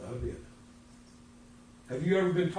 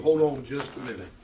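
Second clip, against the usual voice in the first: calm hold on; 3 semitones lower than usual. Shown as a demonstration. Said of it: "I will say to you".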